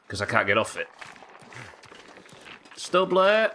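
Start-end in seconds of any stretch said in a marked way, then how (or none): 2.8-3.5 sudden high yelp, louder; high startled cry of alarm; startled shout. Real, not acted. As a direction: blurt it out in shock. Sudden shout in tense game moment.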